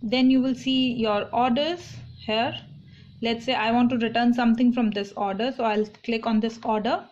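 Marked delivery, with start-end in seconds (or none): none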